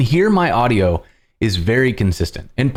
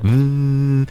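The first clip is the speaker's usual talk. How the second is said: imitated hum; 4 semitones higher than usual. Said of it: "there's just kinda like".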